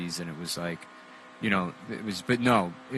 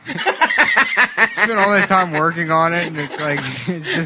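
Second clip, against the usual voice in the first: giggling through the words; laughing hard while talking; 8 semitones higher, 8 dB louder than usual. Real, not acted. Laughing at the bad clip.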